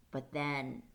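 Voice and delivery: whispered, hushed storytelling; hushed suspense. A narrator's reading. Teacher reading to class, whispering the suspense. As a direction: let the dread creep in on a whisper. Suspense line read to children.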